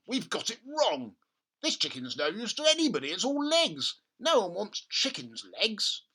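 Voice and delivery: despairing father. Acted. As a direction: moan about the failure. Father dismayed.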